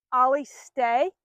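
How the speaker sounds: slow, firm stay command; firm, slow demo of the stay command. Shown as a demonstration. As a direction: give the order slowly and firmly. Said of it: "in a firm tone".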